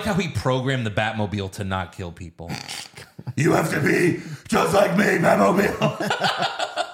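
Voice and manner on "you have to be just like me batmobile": high, loud, slow hammed-up lecture with a laugh breaking through; mock stern Batman. Batman lecturing his own Batmobile, hammed up high and loud. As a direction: play Batman teaching his car morals, laughing.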